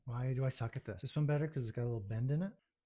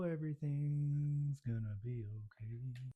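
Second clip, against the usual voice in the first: self-reassurance; 6 dB quieter, slower than usual. Real, not acted.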